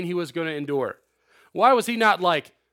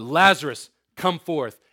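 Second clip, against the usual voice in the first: louder call on the name; loud cry; 5 dB louder than usual. Acted. Jesus at the tomb calling Lazarus, loudly. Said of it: "he cried with a loud voice".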